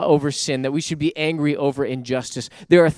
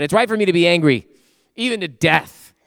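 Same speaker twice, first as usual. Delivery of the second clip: a hint of a sulky, childish Jonah, quick and louder; big baby Jonah; 3 semitones higher, 5 dB louder than usual. Jonah talking back to God, lightly sulky. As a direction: play Jonah as a pouting child. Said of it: "a big baby response".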